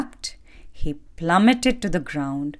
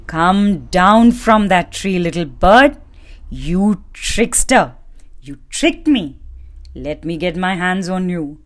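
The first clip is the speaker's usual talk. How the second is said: angry shout; 3 semitones higher, 3 dB louder than usual. Acted. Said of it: "shouted the man".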